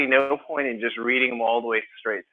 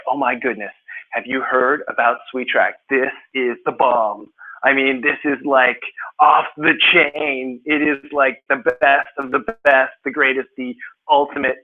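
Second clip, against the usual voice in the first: enthusiastic. Acted. Teacher showing students how an enthusiastic writer sounds, gushing enthusiasm. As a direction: rave like an over-the-top fan. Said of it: "Enthusiastic is like".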